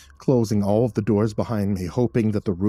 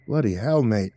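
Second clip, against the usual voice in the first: put-on a light British accent, not pushed far; lightly voiced British rescuer; a hint of a rough British accent; thick British accent. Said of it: "said in a thick British accent".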